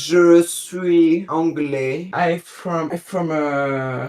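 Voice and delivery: very slow mock English accent; accent anglais. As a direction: drag out each word like a caricatured Englishman. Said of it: "Quand tu prends l'accent anglais". (accent anglais caricatural, très étiré)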